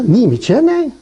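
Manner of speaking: imitated Gyeongsang retort; mock incredulity in Gyeongsang dialect. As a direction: put a Gyeongsang lilt on it. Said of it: "이게 경상도 말로".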